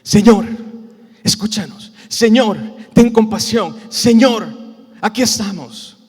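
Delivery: loud bursts on each call; acted insistent plea; shouting harder. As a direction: cry out repeatedly to be heard. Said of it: "empezamos a gritar más duro".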